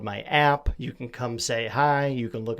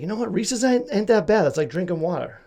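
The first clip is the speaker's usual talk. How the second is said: goofy high voice; 8 semitones higher, 4 dB louder than usual. Retold or imitated. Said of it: "I was like".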